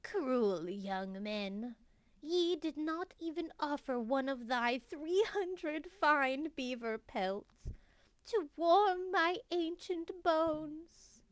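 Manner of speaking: put-on creaky old witch cursing travelers; old hag. Improvised witch speaks to travelers.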